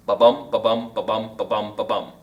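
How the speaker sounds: low, even "ba-bum" with weight on each bum; iambic pentameter beat. Shown as a demonstration. Teacher counting out five iambs, low chanted "ba-bum" stressed on "bum". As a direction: tap out five ba-bums, stressing every "bum". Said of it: "five ba-bums".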